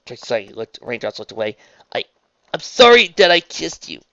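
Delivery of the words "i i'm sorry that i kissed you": high, loud halting apology; stumble, then push the apology out; remorseful. A narrator's reading. Raindrops apologises to Trixie for the kiss, remorseful.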